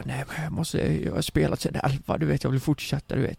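soft, furtive mimicry of a friend; imitated hushed talk. Friend confessing he has gamed since eleven, imitated hush. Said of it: "han pratar ju så här".

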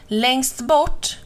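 crow's rising exclaimed question; mild incredulous call. A narrator's reading. Crow questions Mamma Mu's hiding place, mild call. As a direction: echo it back as a called question. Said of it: "ropade kråkan".

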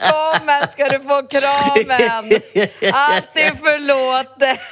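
high, slow, sing-song mock mothering; mock motherly forgiveness. Mocking the tall guy as she offers him a hug, high and slow. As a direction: coo it like soothing a child, slowly.

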